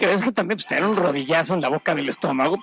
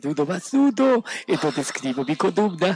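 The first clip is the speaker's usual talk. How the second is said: plugged-nose impression. Host playing a congested columnist writing, plugged-nose voice. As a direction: turn n's into d's as with a cold. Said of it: "tapones en la nariz, pero así hablaba".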